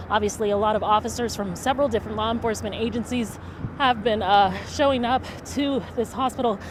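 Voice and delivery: breathless after running uphill; out of breath. Real, not acted. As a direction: talk while catching your breath. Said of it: "Excuse me, while I'm out of breath".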